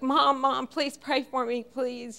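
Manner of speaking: mild mock tearful begging; panic-stricken crying. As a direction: plead like a panicked son, without real tears. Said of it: "sounded just panic-stricken and just was crying".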